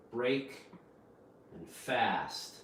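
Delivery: full vowels on both Break and fast; two separate words. Shown as a demonstration. Teacher splitting a combination word for learners, two separate words. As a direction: BREAK and FAST said apart with a pause. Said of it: "you don't pronounce it break fast".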